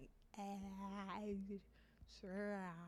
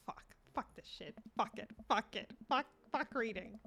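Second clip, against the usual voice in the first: breathy whispered swear; real quiet defeat; whispered giving up; 4 semitones lower, 11 dB quieter, faster than usual. Real, not acted. Gives up muttering.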